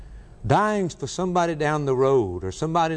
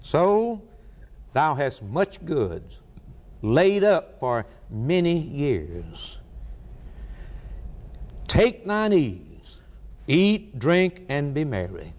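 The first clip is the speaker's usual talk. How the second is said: self-satisfied rich man; slower than usual. Acted. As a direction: savour every word like a man pleased with his wealth. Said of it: "I'm going to say to my soul".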